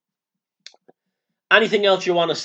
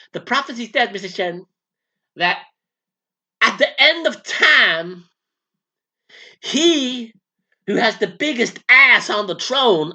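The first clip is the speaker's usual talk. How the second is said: southern preacher; 3 semitones higher than usual. Acted. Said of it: "now you sound like a southern preacher".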